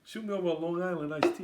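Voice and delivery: high, loud Long Island guy; Long Island accent. Pretend. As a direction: call out for a drink, Long Island style. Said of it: "you're like".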